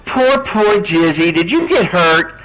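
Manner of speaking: slow, drawn-out fake sympathy; mock pity. Taunting an injured rival, mock pity. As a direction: pity her slowly and insincerely.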